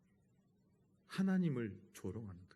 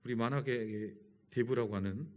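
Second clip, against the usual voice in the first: ordinary talk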